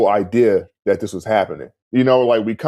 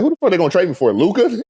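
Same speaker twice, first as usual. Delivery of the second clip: higher, rising toward a laugh on "Luka"; laughing disbelief; 8 semitones higher, faster than usual. Retold or imitated. Mocking the thought he'd be traded for Luka, laughing. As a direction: scoff at the very idea, laughing.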